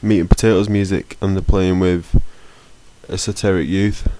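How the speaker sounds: stuffy blocked-nose voice. Real, not acted. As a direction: talk through a blocked nose. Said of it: "I can't breathe out my nose".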